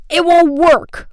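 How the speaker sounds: high, loud, drawn-out complaint; crying out. A narrator's reading. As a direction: yell it in frustration. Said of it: "one cried out".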